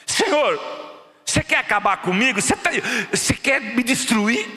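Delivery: a hint of an anguished Moses crying out to God; Moses complaining. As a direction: cry out to the Lord, worn out. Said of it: "Moisés falou assim". (um leve Moisés angustiado clamando a Deus)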